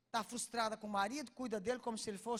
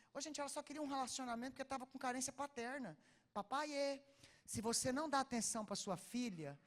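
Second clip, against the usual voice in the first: normal talking voice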